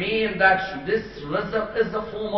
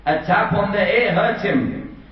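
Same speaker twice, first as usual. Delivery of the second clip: emphatic, slow; 4 semitones higher, 5 dB louder than usual. Acted. Preacher stressing his point.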